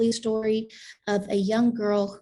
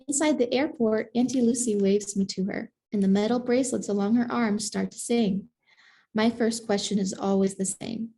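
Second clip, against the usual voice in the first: measured picture-book reading, savoring each phrase; story narration. A narrator's reading. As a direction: read it to children in unhurried phrases. Reads a picture book aloud.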